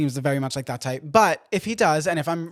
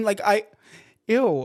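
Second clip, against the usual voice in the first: ordinary talk, nothing marked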